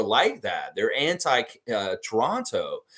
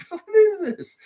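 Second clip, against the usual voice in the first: much higher and louder, squeaky; loud mock disbelief; 6 dB louder, slower than usual. Streamer shouting at the tweets in mock shock. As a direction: hurl it out in comic shock.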